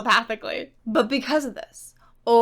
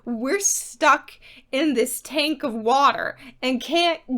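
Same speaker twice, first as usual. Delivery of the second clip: Rachel pleading; 4 dB louder than usual. Retold or imitated. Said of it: "Rachel talks to him and is like".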